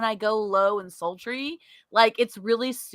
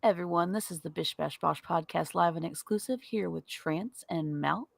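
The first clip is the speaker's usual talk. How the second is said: low sultry ASMR voice; 4 semitones lower, 7 dB quieter than usual. Pretend. Doing the podcast intro in a sultry ASMR voice. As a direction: purr the show intro like a late-night radio host. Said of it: "the A S M R version".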